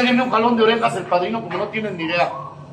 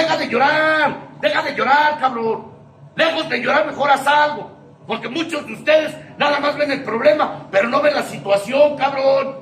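imitating a stern padrino telling him to stop crying; harsh scolding; 5 semitones higher than usual. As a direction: bark it at him like a tough sponsor. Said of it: "duro y al casco".

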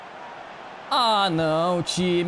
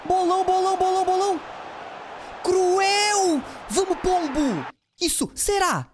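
excited cheer; 12 semitones higher than usual. Real, not acted. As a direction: cheer the play like a fan. Cheering a great play.

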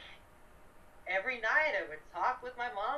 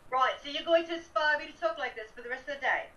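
put-on American putting on a British English accent; playful fake English accent, "going" slightly stressed; 4 semitones higher, 3 dB louder than usual. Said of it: "Are you gonna talk English?".

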